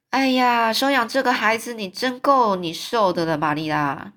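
a touch of smug severity; severe and disagreeable. Acted. Mrs Lynde telling Marilla she has trouble ahead, mildly snide. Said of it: "很严肃的，令人讨厌".

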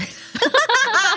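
high, loud burst of laughter. Real, not acted. 笑自己说婆婆坏话. (响亮的高声大笑)

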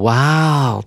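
mildly acted, drawn-out wow; exclaimed wow. Teacher acts out visitors crying out, exclaimed amazement. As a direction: let out an impressed wow. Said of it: "他们会叫出".

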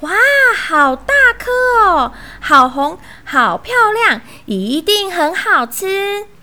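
high, squealing little-mouse delight; awed excitement. Acted. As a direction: marvel loudly, stretching the words. Little mice marvel at strawberries.

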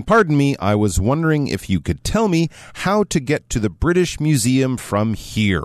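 politely asking a stranger for directions; courteous, slowing down at the end; very polite request. Acted. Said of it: "begins this conversation very politely".

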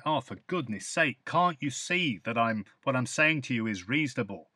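lightly exasperated "Oh, for goodness sake"; a touch of put-upon grumbling; mild complaint. Shown as a demonstration. Teacher acting out a mild exasperated complaint. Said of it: "where people are complaining about something".

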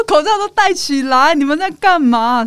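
slow, loud drill instructor orders. Retold or imitated. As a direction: command them like a drill sergeant. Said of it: "教官的口气又来了".

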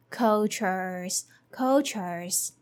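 cultures as KOL-churz. Shown as a demonstration. Teacher drilling cultures for students. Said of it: "combining all together".

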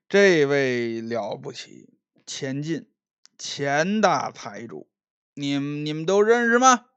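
tipsy, halting show-off introduction; drunk young master. Acted. Drunk Liu boasting to the tavern crowd, halting. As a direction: slur and stumble like a boastful drunk.

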